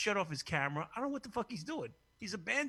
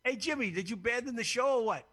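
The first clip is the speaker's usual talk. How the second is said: laughing call-out; 7 semitones higher, 5 dB louder than usual. Real, not acted. Calling out to cohost, laughing.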